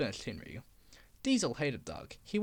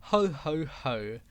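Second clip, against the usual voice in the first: mild spoken ho ho ho; chuckle; 4 semitones lower, slower than usual. Acted. Duck amused by Diesel's mishap, mild chuckle. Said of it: "chuckled Doug".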